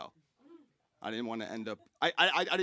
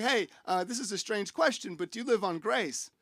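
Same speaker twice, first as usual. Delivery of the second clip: softly voiced, hesitant question; tentative old neighbor; 7 dB quieter than usual. Old guy approaching a shopper in a store, quietly tentative. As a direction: ask a stranger quietly, a little awkwardly.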